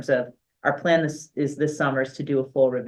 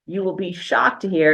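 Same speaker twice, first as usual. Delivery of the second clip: dry sarcasm, pitched a little up; sarcastic; 4 semitones higher than usual. Real, not acted. Superintendent jokes to board about inconsistent school procedures, sarcastic. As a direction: announce it with mock shock. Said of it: "and that's sarcastic".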